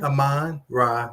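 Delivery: "Amon-Ra" slowly, split as uh-MON, rah; slow pronunciation. Shown as a demonstration. Co-host breaking down the first name, slow pronunciation. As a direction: stretch "Amon-Ra" into two slow parts. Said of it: "We just say it pretty quickly".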